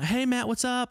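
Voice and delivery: put-on breezy Southern accent hello; Southern Belle accent. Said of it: "Southern Belle".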